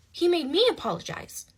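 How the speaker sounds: repeating it in real outrage. Real, not acted.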